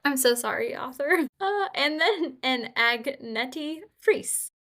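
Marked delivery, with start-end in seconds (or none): 2.4-4.5 "Agnetti Friese" read slowly, syllable by syllable; sounding out "Agnetti Friese" slowly; careful name reading. Real, not acted. Reading a translator's name, slow careful sounding out. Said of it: "I'm gonna butcher these names".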